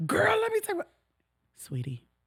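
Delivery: loud, very high put-on voice. Retelling a loud coworker interrupting a meeting, imitating a loud coworker. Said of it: "At that volume right there".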